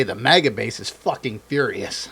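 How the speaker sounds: laughing through the words. Real, not acted. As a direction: say it while laughing. Laughing while telling.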